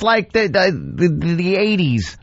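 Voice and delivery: high-pitched disbelief, easing down toward the end; incredulous outburst. Real, not acted. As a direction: cry out in amused disbelief at the dated phrase. Incredulous at the dated insult.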